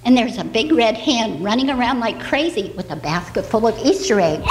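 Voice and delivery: put-on bright storyteller voice for little kids; reading to children. Storyteller reading an Easter tale to the children. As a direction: tell it gently like a bedtime story.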